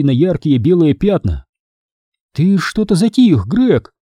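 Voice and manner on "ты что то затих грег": worried. A narrator's reading. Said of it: "встревоженно сказала миссис Бэнкс".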